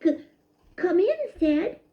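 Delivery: stammering. A narrator's reading. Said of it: "he stammered aloud".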